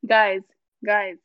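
calling out. Real, not acted. Calling the group loudly.

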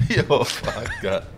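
worn out from laughing. Real, not acted. Mate recovering from the punchline, still laughing. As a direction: curse weakly through leftover laughter.

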